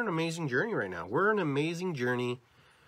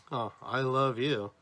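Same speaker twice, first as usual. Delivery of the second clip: slow, sighed-out oh, then love stretched; drawn-out inflection; slower than usual. Shown as a demonstration. Speaker demonstrates inflections, slow and drawn out. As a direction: take your time over I love you. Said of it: "we use inflections".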